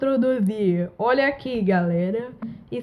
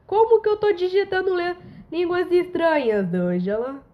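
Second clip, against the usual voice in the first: indignant protest; 4 semitones higher than usual. Real, not acted. Protests to app Angela.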